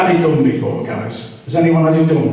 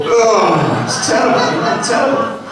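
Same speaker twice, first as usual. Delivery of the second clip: exclaiming; 4 semitones higher than usual. Real, not acted. Laughing about the doctor.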